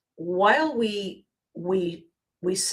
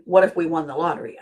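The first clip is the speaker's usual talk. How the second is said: quick, offhand what if; breezy lottery musing; casual throwaway; 3 semitones lower, 3 dB louder, much faster than usual. Shown as a demonstration. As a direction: toss it off like idle daydreaming. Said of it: "I don't mean".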